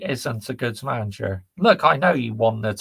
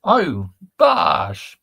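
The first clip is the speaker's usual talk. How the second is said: excited shout-out; 4 semitones higher, 7 dB louder than usual. Real, not acted. Greeting a viewer loudly.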